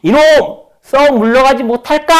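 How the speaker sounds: high, loud angry shout into thin air; thundering rebuke. Acted. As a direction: roar at a demon to be gone. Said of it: "대성통곡을 하듯 호통을 쳤습니다". (허공에 대고 치는 호통)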